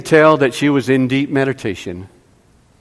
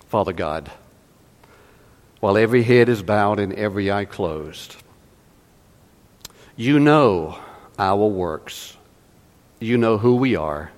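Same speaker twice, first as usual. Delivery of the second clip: closing prayer; 4 semitones lower than usual. Real, not acted. Preacher praying for the congregation with heads bowed, reverent. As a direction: plead reverently to God, phrase by phrase.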